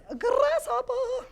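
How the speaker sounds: high, drawn-out mock Asian accent. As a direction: stretch it out in a playful kung fu movie Asian accent. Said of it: "Asian accent thing happening".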